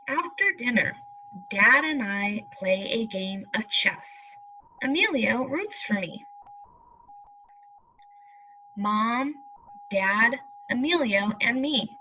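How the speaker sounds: unhurried storybook reading, every word clear; reading to children. Acted. Teacher reading the family story to pupils, slow and clear. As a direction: read it out like a picture book for the class.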